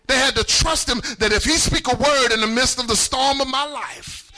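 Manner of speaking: surging preacher's emphasis; fervent, forceful sermon delivery; full-force preaching. Real, not acted. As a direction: drive the long sentence home to the congregation.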